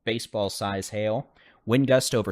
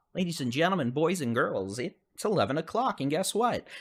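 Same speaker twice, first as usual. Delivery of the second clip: put-on booming kids show opener; 6 semitones higher than usual. Opens show like announcer.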